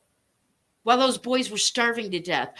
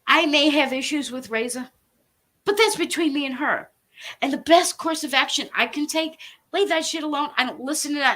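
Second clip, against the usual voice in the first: real anger; 4 semitones higher, 3 dB louder than usual. Real, not acted. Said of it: "I am so angry".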